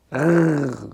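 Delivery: French uvular R on its own. Shown as a demonstration. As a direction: sound out a rolled-throat French R. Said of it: "c'est la prononciation du son R".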